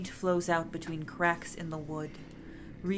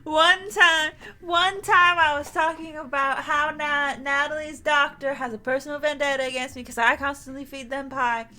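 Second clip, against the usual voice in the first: excited, giggly aside; 8 semitones higher, 7 dB louder than usual. Real, not acted. Excited laughing story.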